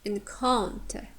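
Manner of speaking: "encounter" with stress on "coun"; careful demo of "encounter", strong second syllable. Shown as a demonstration. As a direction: lean on the middle of "encounter". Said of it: "stress falls on the second syllable".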